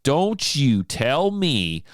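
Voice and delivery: a touch of hackles-up defiance; a listener huffing back at the radio host; mock indignant rant. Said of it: "raise my hackles".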